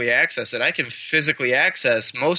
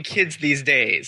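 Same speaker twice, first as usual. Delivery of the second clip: laughing; slower than usual. Retold or imitated. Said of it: "you started it by saying".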